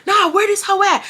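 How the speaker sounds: high, angry mock yell without volume; high-pitched retold fury; mock screaming. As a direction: act out raging on the phone. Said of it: "I'm screaming on the phone".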